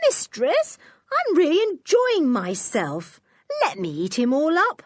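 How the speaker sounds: a dog begging to keep playing; lightly voiced dog. Timmy's pretend answer to his mistress, lightly voiced pleading dog. Timmy's imagined reply to George.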